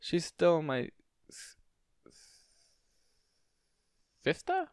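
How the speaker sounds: halting, rising to a high sister; a little boy stumbling over his words; young boy voice. A narrator's reading. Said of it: "the young voice".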